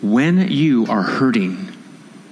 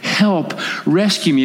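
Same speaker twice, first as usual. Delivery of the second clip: higher, slow drawn-out oh Father; pleading cry; 6 semitones higher, slower than usual. Acted. Child crying to a rescuing father, high slow plea. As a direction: stretch the oh and plead upward. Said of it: "You cry out".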